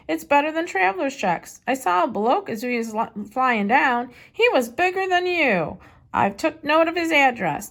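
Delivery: a hint of cheeky young Jack reading his postcard; light boy's voice for Jack's note.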